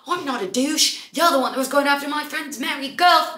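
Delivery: high-pitched imitation of an arguing man; mock indignant protest. British guy denying he's a douche, mock indignant. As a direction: act out an indignant denial, voice pushed high.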